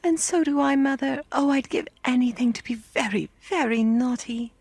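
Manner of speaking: put-on high, wistful little-girl plaint; lightly acted sad wail; sad crying child. A narrator's reading. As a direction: pipe up sadly, full of longing. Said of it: "cried sadly".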